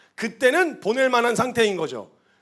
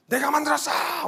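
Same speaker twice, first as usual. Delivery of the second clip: mock angry retort; 6 semitones higher than usual. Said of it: "하나님이 화가 나시기 시작하신 거예요".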